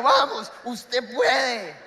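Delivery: slow encouragement through laughter; laughing slow push to keep going. Retold or imitated. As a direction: cheer her on while laughing.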